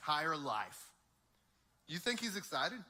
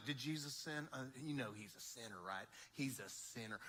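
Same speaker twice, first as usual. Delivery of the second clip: mock gossip; 6 semitones lower, 12 dB quieter than usual. Mocking the rulers' whispered gossip.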